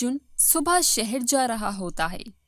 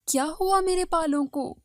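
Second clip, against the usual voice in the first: higher-pitched worried question; alarmed; 5 semitones higher than usual. Acted. Wife asking what happened to her hair, alarmed. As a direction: ask with rising alarm.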